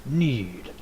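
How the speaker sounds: slow menacing dragon. Acted. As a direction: speak as the World Eater dragon. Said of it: "I heard the World Eater say".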